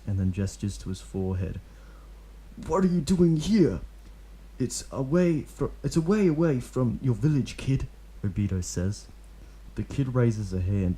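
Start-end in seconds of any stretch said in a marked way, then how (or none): 2.7-3.8 higher, louder questioning; lightly voiced stern ninja. A narrator's reading. Obito questioning the stray kid, stern. 4.6-7.9 lightly voiced stern ninja. A narrator's reading. Obito questioning the stray kid, stern.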